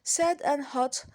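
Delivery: "Sad and hot" said slowly, each word set apart; slow, clear model words. Shown as a demonstration. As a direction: spell out "Sad and hot" for the class. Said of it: "Let's look now at the word sad and hot".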